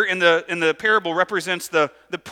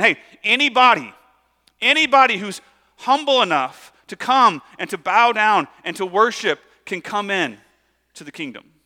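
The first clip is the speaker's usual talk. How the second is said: calling out; 4 dB louder than usual. Retold or imitated.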